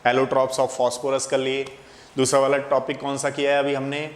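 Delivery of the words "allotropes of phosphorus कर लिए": slow recap. Shown as a demonstration. Teacher recaps topics slowly.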